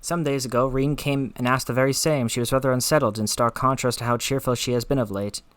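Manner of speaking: put-on a light Scottish accent for Lena. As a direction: read her lines in a gentle Scottish brogue. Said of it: "Lena has a Scottish accent".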